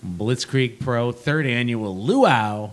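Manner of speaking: slow, drawn-out ring announcer call. Acted. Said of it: "you're getting more into it".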